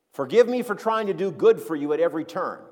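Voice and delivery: mildly sarcastic plea for forgiveness; sarcastic apology. Acted. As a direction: ask pardon with understated, mock contrition. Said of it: "he sarcastically asks them forgiveness".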